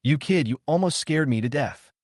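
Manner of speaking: smiling scold. Acted. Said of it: "he smiled and scolded".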